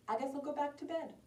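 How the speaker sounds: soft, high, quick mumble to oneself; resigned grandmother. Acted. Grandma shrugs to herself, soft resigned voice. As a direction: toss it off in a small high voice.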